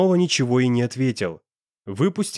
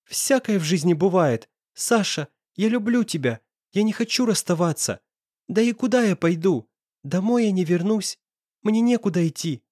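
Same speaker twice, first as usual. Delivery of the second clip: put-on higher, desperate girl's voice; pleading girl; 7 semitones higher than usual. A narrator's reading. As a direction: beg him not to leave.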